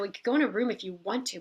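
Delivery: quick, dismissive mock attitude; snippy attitude. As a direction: rattle it off like the request is a bother. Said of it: "she gave me an attitude like".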